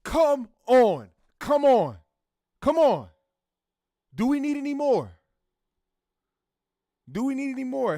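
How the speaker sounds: high, loud hyped cheering; excited shouting. Real, not acted. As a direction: hype it up, shouting. Hyped reaction to testimony.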